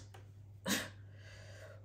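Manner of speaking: soft, wordless laugh; brief real chuckle after speaking. Real, not acted. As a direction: let a low-volume laugh slip out.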